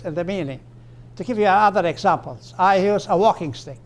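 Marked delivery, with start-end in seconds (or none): 2.6-3.8 WALKING stressed, stick dropping after it. Shown as a demonstration. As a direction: hit "walking" and let "stick" fall. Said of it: "Same intonation as up here".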